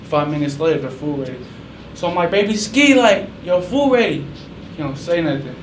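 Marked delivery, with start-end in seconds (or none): 2.3-4.2 higher, louder call, slow and drawn out. Retold or imitated. Uncle calling his nephew that food is ready, drawn-out call. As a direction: call the kid to the table.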